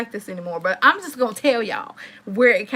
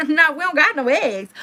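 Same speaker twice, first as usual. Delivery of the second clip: laughing, a bit higher and louder; half-laughing retelling; laughing repeat; 4 semitones higher, 3 dB louder than usual. Real, not acted. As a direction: laugh through the disbelief.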